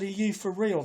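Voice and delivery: high, disbelieving question; incredulous. Retold or imitated. To the arresting officers, high incredulous question.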